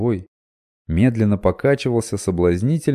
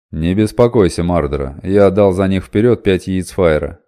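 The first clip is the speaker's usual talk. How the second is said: reassuring merchant; 7 dB louder than usual. Acted.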